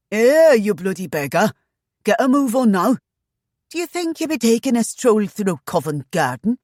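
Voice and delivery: high, loud bellowed shout at a prisoner; bellowing guard. A narrator's reading. Guard bellowing at a chained bondsman, loud and high. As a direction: bellow at the shackled man. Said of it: "A loud shout bellowed from a guard".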